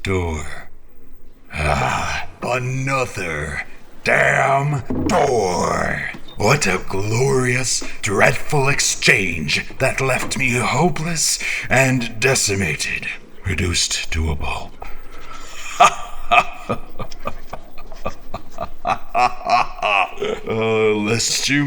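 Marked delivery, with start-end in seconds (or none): 1.5-10.5 rising exasperation at another door; exasperated outburst. Acted. Man cursing the book's riddles, exasperated outburst. 14.8-20.4 dry, rueful laugh; bitter laugh. Acted. Man mocking his hopeless bargain, rueful laugh.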